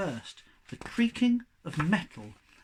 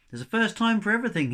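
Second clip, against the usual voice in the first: wry thought; 6 semitones higher, 5 dB louder, much faster than usual. Acted. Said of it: "he thought".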